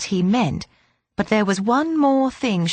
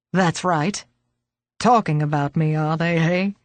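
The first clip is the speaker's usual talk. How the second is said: put-on old man voice; 3 semitones lower than usual.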